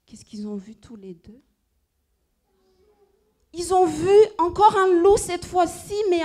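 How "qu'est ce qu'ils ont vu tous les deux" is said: soft whisper holding the suspense. Acted. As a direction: lean in and whisper the question. Suspense before second reveal.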